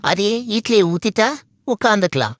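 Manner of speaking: loud complaining rant; comic loud grumbling. Acted. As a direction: hammer out the grievance loudly. Ranting about cooking dosa.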